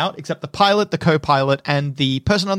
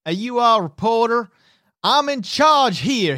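high, raised voice of command; commanding young officer; 5 semitones higher than usual. Acted. Lieutenant telling the embedded reporter who's in charge, commanding. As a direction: assert authority over the din.

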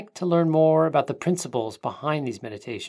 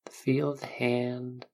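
whisper; 7 dB quieter than usual. Acted. Whispered imagery in meditation.

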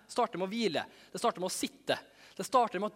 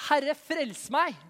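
higher, louder, slow plea to be saved; cry for help; 9 semitones higher, 7 dB louder, much slower than usual. Acted. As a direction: call out drawn out in alarm. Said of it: "ropte han ut".

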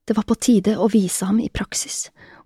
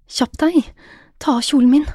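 higher-pitched urgent order; impatient command; 5 semitones higher than usual. A narrator's reading. Jenny telling Bjørn to hurry, impatient. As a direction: hurry him along, pitched up.

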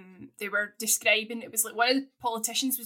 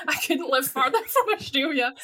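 laughing through the retort; 2 semitones higher than usual. Retold or imitated. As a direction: laugh while answering back. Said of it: "I'm like".

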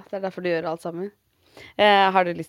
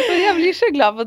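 louder, laughing words of joy; laughing through tears; 11 semitones higher, 6 dB louder than usual. Real, not acted. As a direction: speak through a teary laugh. Laughing while moved. (leende og rørt)

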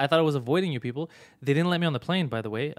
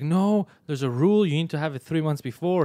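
mock panic; 2 semitones higher, 4 dB louder than usual. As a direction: imitate a panicking agent insisting on a rule. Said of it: "starts panicking".

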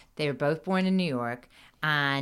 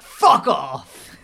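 loud laughing fuck off; mock shout of disbelief, laughing; amazed swear; 8 dB louder than usual. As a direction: blurt it in disbelief. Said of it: "this guy at the door is like".

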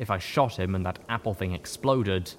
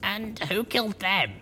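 higher, dry questioning voice; skeptical heroine; 12 semitones higher than usual. A narrator's reading. Heroine questioning her companion, skeptical. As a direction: ask it with one eyebrow raised. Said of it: "with a cocked brow".

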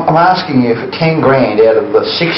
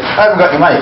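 laughing mock plea; 6 semitones higher, much faster than usual. Quoting the victim while laughing.

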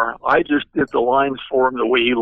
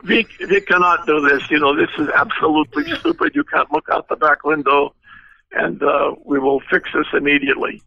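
put-on Zorro's Russian accent; 3 semitones higher than usual. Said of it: "big, thick Russian accent".

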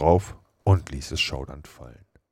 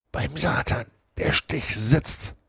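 grumbled; 9 semitones higher, slower than usual. Acted. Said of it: "brummte Joe".

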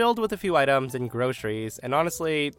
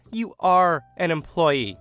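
louder insistence; 4 semitones higher, 5 dB louder, slower than usual. Retold or imitated. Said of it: "Now the woman's getting louder".

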